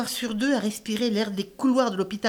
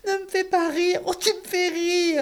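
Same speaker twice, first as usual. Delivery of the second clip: laughing; 6 semitones higher than usual. Acted. Laughing to tears.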